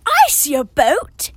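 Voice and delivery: slow, deliberate storybook exclamation; exclaiming. Acted. Nora answering Dora that she sees a boat, exclaiming. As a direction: announce the sighting, drawn out. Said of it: "exclaims Nora".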